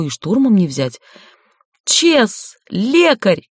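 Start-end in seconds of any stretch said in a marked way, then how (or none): 1.8-3.5 high urgent calls; shouting for help. A narrator's reading. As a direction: call out desperately for help. Calling for help for dying.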